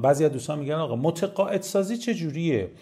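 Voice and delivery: normal talking voice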